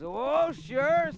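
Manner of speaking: high, loud oh sure; the fire. Acted. Fire answering the narrator, high and loud. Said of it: "said the fire".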